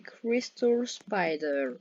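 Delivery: slow, drawn-out English pronunciation; English-accented words, slowly drawn out. Real, not acted. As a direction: show off your English accent, stretching the words. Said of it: "mon accent anglais est très bien".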